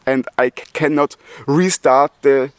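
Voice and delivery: real stutter on "c-"; stuck on the "c-" of "cannot". Real, not acted. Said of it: "you hear it first person, I stutter".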